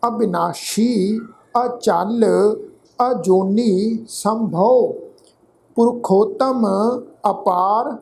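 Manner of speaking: slow, careful scripture reading; slow recitation. Shown as a demonstration. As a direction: recite each phrase slowly for students. Recites scripture slowly for learners.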